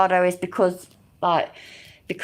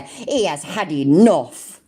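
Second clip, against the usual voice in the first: sarcastic; slower than usual. Retold or imitated. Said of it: "I've had enough".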